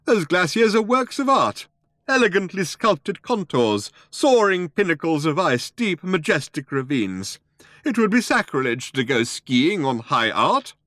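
put-on high, indignant old artist's protest; indignant cry. A narrator's reading. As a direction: defend your masterpiece passionately, pitched high. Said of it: "cried the old man".

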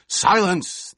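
a roaring command for silence; roared. A narrator's reading. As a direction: cut him off with a furious bellow. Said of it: "the Emperor roared".

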